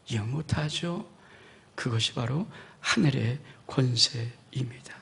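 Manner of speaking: slow whispered conclusion; preacher whispering the final point. Acted.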